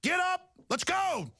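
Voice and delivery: retold challenge. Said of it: "And I said".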